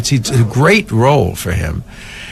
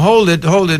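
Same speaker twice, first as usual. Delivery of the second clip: mild high-pitched repeated command; =call it higher, as an order; 6 semitones higher than usual. Retold or imitated. Crew holds cab drivers for the shot, mild call.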